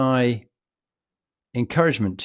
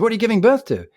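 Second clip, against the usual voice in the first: higher, a touch louder sneering question; mocking instructor; 10 semitones higher, 4 dB louder, much faster than usual. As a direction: jeer at him in a raised mocking voice. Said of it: "He said".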